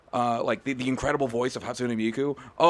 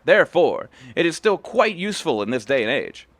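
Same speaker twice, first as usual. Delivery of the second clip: lightly voiced stern old master, a bit louder; old master Kamaki; 5 dB louder than usual. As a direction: read the master's judgement with weight. Reads Kamaki's lines.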